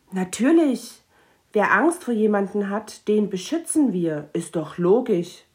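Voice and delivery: firm. Acted. Mathilda declares protection.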